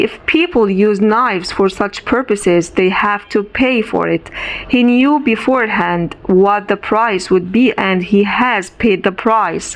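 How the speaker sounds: lightly voiced, coolly dismissive. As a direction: brush it off coolly. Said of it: "coolly and lightly".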